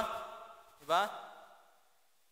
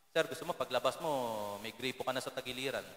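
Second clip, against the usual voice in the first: lightly voiced street tough, softer; a hint of a quiet menacing threat; threatening thug; 7 semitones lower, 7 dB quieter than usual. Street tough threatening the preacher, a hint of menace. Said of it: "binabantaan pa ako".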